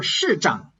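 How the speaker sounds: 市长 with the pitch simply falling away; let it fall. Shown as a demonstration. Teacher showing an easier option, letting 市长 fall. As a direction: let the tone drop on 市长. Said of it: "You can just let it fall".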